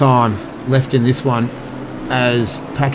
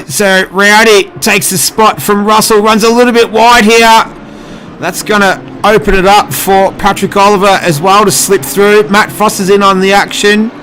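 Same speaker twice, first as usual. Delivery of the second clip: excited; 5 semitones higher than usual. Real, not acted. Commentator calls the overtake.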